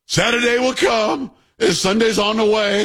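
high, slow, drawn-out pulpit cadence; mock preacher. Host mocking the activist's sudden preaching voice, high and slow. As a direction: ham up a Sunday sermon, slow and high. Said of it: "I don't know what the hell he's talking about".

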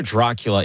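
Dracula said "DRAH-cula", like the film accent; broad "ah" in the first syllable of Dracula; movie-accent Dracula. Shown as a demonstration. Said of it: "someone's trying to do the accent".

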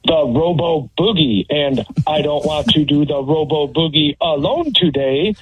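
flat robot voice. Acted. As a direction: mechanical robot delivery. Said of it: "you have to do it sounding like a robot".

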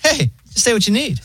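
high, airy imitation of a laid-back phone robot; chill robot voice. Retelling the pharmacy call, airy high robot voice. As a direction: sound way too relaxed for a pharmacy line. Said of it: "the robot voice is, like, so chill".

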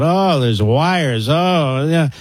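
drawn-out mock complaint, slow; mock whining. Host mimics data center objectors, mock whining. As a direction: lightly imitate a whiner, stretching the words. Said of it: "this whining and complaining about".

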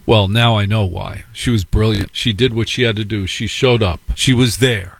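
normal talking voice

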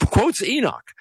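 laughing, high-pitched repeat for emphasis; amused disbelief. Real, not acted. Amused amazement at the quote.

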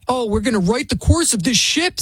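mocking quote. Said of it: "Sonny Hostin said".

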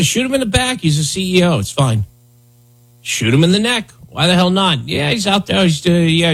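breezy, high mock reasoning; sarcastic imitation. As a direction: voice a careless justifier with scorn. Voicing those who excuse murder, sarcastically.

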